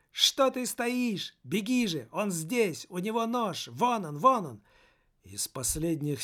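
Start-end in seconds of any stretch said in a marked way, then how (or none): 0.1-4.6 urgent higher shout. Acted. Soul urges him to flee.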